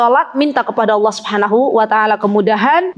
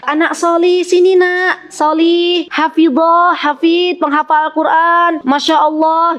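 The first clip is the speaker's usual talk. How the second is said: put-on calling a child fondly, voice lifted higher; kind calling; 4 semitones higher, slower than usual. Shown as a demonstration. Ustazah calling a pupil with good names, affectionate. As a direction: beckon the pupil with loving praise. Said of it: "Biasakan memanggil dengan panggilan yang baik".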